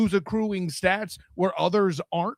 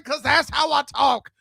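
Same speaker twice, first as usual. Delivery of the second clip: loud sharp voice; 4 semitones higher than usual. Real, not acted. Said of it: "why are you yelling".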